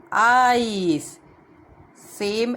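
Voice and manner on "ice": "ice" with a long, full I glide; long I sound. Shown as a demonstration. Teacher to children, showing the long I sound. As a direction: stretch the I in "ice". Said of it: "we pronounce it with a long sound".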